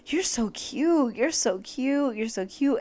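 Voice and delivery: slow, drawn-out doting "You're so cute"; lightly voiced idol cooing praise; imitating his sweet compliments. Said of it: "he was like".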